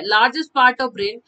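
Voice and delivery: slow drawn-out "largest part of brain"; slow dictation. Shown as a demonstration. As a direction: spell it out slowly for the class. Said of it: "ठीक है".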